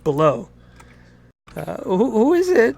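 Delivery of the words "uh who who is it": high, muffled woman asking; lightly voiced mother behind the door; woman's voice. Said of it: "were you doing a woman's voice".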